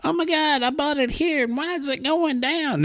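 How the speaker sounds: hammed-up newbie freaking out; mock panicking newbie. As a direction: play the scared beginner who just bought in. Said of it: "And they're like".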